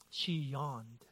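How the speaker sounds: low, soft and flat, letting it land; deadpan drop. Real, not acted. Preacher revealing his wife's yawn, low deadpan. Punchline after taxes story.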